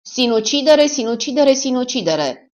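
high, loud, hammering repeats; insistent repetition. Acted. Killer forces his story on the witness, loud insistent chant. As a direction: drum the word into the listener.

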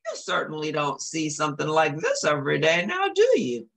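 Jack exclaiming. Acted. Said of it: "he exclaimed".

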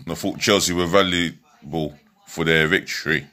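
hiccups and burps breaking the words; talking through hiccups and burps; hiccuping. Real, not acted. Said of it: "am I hiccuping and burping?".

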